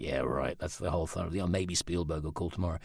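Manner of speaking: low, soft, dismissive aside; sarcastic. Retold or imitated. Doubting friends' promise of discovery, low sarcasm. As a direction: scoff under your voice, unconvinced.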